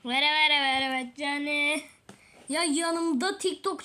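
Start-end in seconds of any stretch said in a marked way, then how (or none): 0.0-1.8 mock dying lament, louder. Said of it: "beni hastaneye kaldırana kadar".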